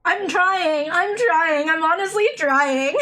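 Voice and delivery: chewing through giggles; laughing while chewing. Real, not acted. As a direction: mouth full and laughing. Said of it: "I'm actually struggling to chew because I'm, like, laughing".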